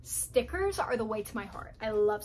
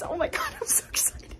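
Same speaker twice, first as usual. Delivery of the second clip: breathless excitement; 6 semitones higher than usual. Real, not acted. Pigs enter the new cage.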